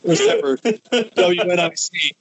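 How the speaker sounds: wrestling promo. Pretend. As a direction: brag like a heel champion. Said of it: "cutting a promo".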